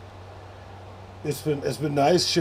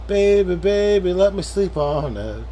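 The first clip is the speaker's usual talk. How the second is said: pleading call; 3 semitones higher, 5 dB louder than usual. Acted. Pleading with chat.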